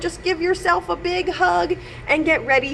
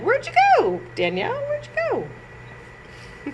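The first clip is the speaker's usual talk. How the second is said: searching call; 13 semitones higher than usual. Pretend. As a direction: call out looking for someone lost. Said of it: "and be like".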